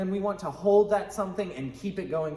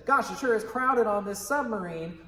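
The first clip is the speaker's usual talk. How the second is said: a bit higher, exclaiming scene opener; lightly acted stage line; acted improv line; 5 semitones higher than usual. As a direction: play a scene partner remarking with energy.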